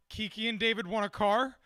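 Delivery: rising, checking the surprising news; puzzled question. Real, not acted. Host repeats misheard news to co-host, surprised question. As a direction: ask it back in amused disbelief. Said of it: "You misheard me".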